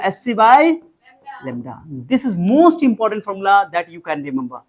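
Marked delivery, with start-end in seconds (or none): 2.1-4.6 very slow, stressing most; slow emphatic statement. Shown as a demonstration. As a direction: lay it down slowly as a key rule. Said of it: "You can remember नहीं, you must remember". (धीरे और ज़ोर देकर)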